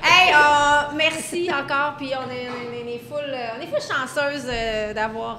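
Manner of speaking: rushed without a breath; holding breath. Real, not acted. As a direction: run it all out on one breath. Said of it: "Elle a tout dit ça sans respirer". (tout d'une traite sans respirer)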